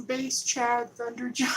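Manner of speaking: slow, booming name read; hyped name callout. Shown as a demonstration. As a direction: announce it like a wrestler. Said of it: "Let me read it one more time".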